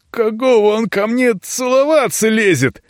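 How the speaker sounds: high, indignant complaint; lightly voiced outraged youth. Indignant young voice.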